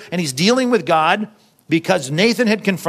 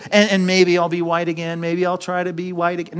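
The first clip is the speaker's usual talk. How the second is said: mock doubt. Mocks a doubtful version of David.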